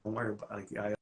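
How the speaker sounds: put-on calm a scared kid inside you; soothing. Shown as a demonstration. Coach shows Michelle how to soothe yourself, soft and reassuring. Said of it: "that's what I consider soothing".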